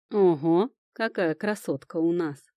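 a demon flirting merrily; cheerful flirtatious exclamation. Acted. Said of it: "весело воскликнул один".

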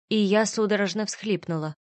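plain reading voice

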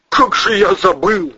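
a man suddenly remembering; Protasov remembering. Acted. Suspect to colonel, sighing realization. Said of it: "вздохнул он".

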